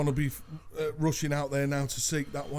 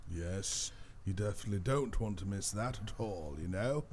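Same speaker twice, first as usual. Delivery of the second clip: lowered, softer posh voice; 5 semitones lower, 6 dB quieter than usual. Shown as a demonstration. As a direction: put on a posh accent. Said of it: "That's my posh voice".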